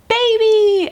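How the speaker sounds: high, loud burst of joy; excited announcement. Retold or imitated. Nurse turning the screen to the mother, shouting it high and excited. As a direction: announce it like a surprise reveal.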